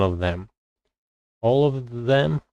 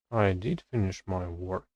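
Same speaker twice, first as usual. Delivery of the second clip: "did" lifted in pitch, the rest softer; stress on did; 2 semitones lower, 6 dB quieter than usual. Shown as a demonstration. Learner repeating a grammar example, stress on "did". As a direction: punch "did", then let "finish my work" drop. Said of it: "auxiliary verb to stress".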